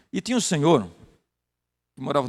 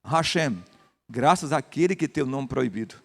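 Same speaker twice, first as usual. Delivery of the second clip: brighter, louder, eager reply; Eliseu answering; 4 dB louder, slower than usual. Retold or imitated. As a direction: congregant Eliseu answering the pastor, lightly acted. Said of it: "Ele diz".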